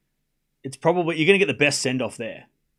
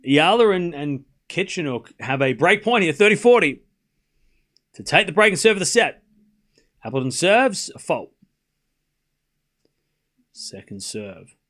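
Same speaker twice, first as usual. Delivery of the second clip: raised-pitch break point commentary; live play-by-play; 3 semitones higher, 4 dB louder than usual. Real, not acted. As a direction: set up the big point for viewers.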